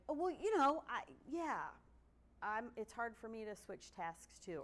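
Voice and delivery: mock pushback. Lecturer imitating a neurotypical person claiming the same struggles, mocking. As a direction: pitch it up like a dismissive know-it-all.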